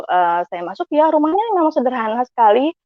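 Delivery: usual speaking voice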